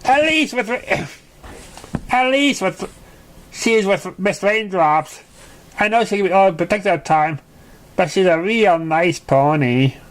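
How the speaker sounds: a little high, hesitant filly; mildly nervous filly voice. Acted. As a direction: hedge it awkwardly. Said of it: "scratching the back of her neck nervously".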